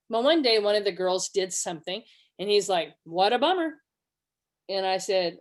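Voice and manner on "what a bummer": husband's mocking fake sympathy; unsympathetic. Husband reacting to his girl's slip-up, mock sympathy. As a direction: imitate a careless 'too bad for you'. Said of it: "sounded like, 'Sucks to be you.'".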